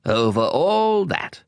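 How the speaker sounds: a slow, calm, certain statement; king confirms his universal reign; royal assurance. Acted. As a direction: answer as if it were obvious. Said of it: "the king answered".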